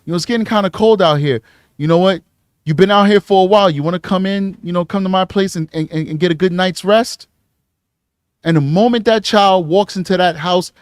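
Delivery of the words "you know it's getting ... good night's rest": soft, quick, friendly street voice; butter her up with food offers; smooth predator. Retold or imitated. A predator offering a runaway food, soft smooth voice. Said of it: "The sophisticated predators is just gonna talk".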